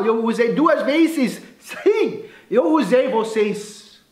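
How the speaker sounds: high, emphatic, drawn-out boast; excited reveal. Real, not acted. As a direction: proudly let them in on the trick. Gleefully reveals he used the phrase. (revelação empolgada, em tom agudo)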